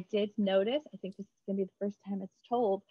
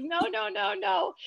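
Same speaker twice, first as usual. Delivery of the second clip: emphatic denial; 10 semitones higher than usual. Retold or imitated. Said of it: "And I was like".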